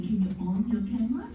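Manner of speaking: Singlish phrasing. Shown as a demonstration. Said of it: "a very Singlish way of saying".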